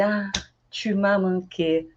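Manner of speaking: slow, gentle tu m'as manqué; tender. Shown as a demonstration. Teacher modeling a reunion phrase. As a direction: say it fondly. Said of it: "Aí tá assim".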